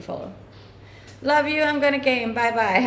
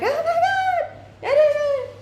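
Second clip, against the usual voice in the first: high, very slow, drawn-out Oh my God; amazed gasp; 3 dB louder, much slower than usual. Retold or imitated. Streamer acting out her first-time amazement to viewers, awestruck high drawl. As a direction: gasp it out in wonder, stretched long. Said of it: "and you're like".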